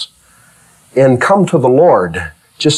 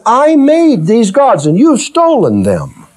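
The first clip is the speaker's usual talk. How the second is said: voicing Micah; 9 semitones higher than usual. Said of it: "he says".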